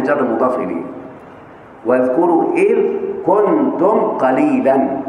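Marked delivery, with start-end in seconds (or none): 1.9-5.0 إذ raised on a rise, كنتم قليلًا drawn out slowly; slow teaching read with إذ lifted; stress on إذ. Shown as a demonstration. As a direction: spell out إذ for the pupils. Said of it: "كان فعل ناسخ".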